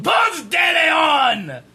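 mock French accent; guttural French accent. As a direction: drag out Ponce de Leon in a hammed-up French accent. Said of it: "Give me another word".

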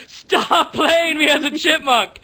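high, slow, squeaky chipmunk voice; mock-angry chipmunk rapper, laughing; a rapper as a chipmunk. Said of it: "he's gonna be like".

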